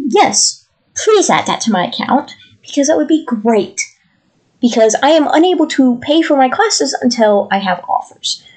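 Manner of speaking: strained, over-polite customer voice; nice and polite. Retold or imitated. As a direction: lay on the politeness to cover annoyance. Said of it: "I was being nice and polite".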